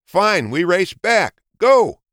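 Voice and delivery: slow, then a loud high shout; angry. A narrator's reading. Angry hare demands another race. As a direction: grudgingly demand a rematch.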